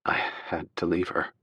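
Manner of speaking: soft, reluctant confession; forced out. A narrator's reading. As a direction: push the words out unwillingly. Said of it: "He forced out the words".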